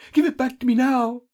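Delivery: high, loud insistence; captive's forceful, high-pitched order; urgent demand. A narrator's reading. Captive demands her stolen stone.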